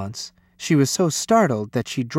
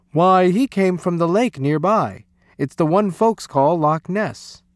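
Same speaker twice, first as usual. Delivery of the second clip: a hint of a Scottish uncle, a little raised; lightly voiced uncle; 4 semitones higher, 3 dB louder than usual. Uncle telephoned about the animal's origin, lightly voiced uncle. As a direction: lightly play the uncle explaining.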